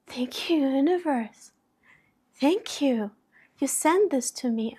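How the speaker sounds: retold wonder, lifted in pitch; grateful amazement. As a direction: thank the universe in happy disbelief. Retold thanks to the universe.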